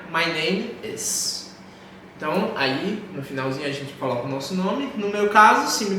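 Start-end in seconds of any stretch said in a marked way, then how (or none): 0.1-1.5 slow drill. Shown as a demonstration. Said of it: "One more time".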